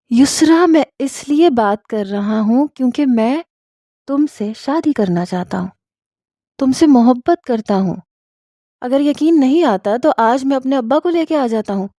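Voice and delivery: acted earnest proposal, pitch lifting on key phrases; earnest love confession. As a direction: declare love with mild urgency.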